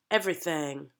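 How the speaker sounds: everything with thing opened toward thang; I switched to ah. Shown as a demonstration. Coach repeating the exception for actors, opened vowel. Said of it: "it switches to an ah".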